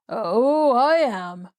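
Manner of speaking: drawn-out sour agreement; grim retort. Acted. Patient answering a girl who says be glad, grim. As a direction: agree with grudging, mild sarcasm. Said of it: "retorted the man grimly".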